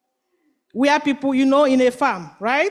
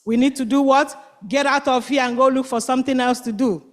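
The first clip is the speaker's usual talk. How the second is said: bored complaint. Acted. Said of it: "All of a sudden they say".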